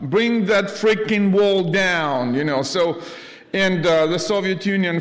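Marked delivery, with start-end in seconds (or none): 0.0-2.3 higher, louder, slow oratory; lightly voiced presidential demand, slow and raised; Reagan speech. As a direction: proclaim it like a president at the wall.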